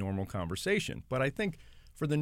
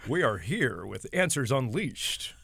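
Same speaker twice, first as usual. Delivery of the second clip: affected newscaster voice; 2 semitones higher, 4 dB louder than usual. Shown as a demonstration. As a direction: ham up the news voice. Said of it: "If I start reading like this".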